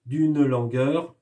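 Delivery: slow, each syllable spaced; rhythmic reading. Shown as a demonstration. Teacher demonstrating rhythm to pupils, slow and spaced. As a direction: draw out d'une langueur to the beat. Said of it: "le rythme du poème".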